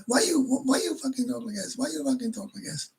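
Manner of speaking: mock the bar girl's indignant pitch. Bar girl voiced in argument.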